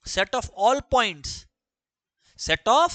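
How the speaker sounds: very slow, word by word, for note-taking; dictating each word apart; slow dictation. Shown as a demonstration. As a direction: spell it out slowly so students can write. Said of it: "teacher dictating slowly".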